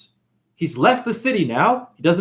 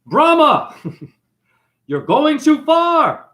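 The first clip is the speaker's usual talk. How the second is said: stern warning god; 10 semitones higher, 4 dB louder, slower than usual. Acted. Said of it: "And Shiva says".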